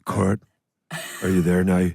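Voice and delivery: imitating a Northern Irish boyfriend; Johnny impression. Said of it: "have you ever tried to do Johnny".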